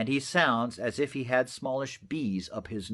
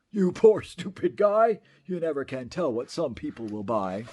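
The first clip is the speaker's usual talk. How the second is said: mocking. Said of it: "I laughed at the Lorax".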